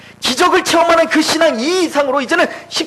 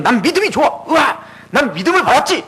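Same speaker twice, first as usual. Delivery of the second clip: mock boasting believer. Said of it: "웃기지 마세요".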